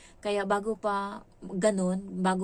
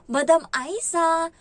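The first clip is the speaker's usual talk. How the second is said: slow, high, loud teasing drawl of the name; mocking; 7 semitones higher, 9 dB louder, slower than usual. Employer mockingly calling her maid madam. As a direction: stretch the name out to needle her. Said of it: "nangaasar daw".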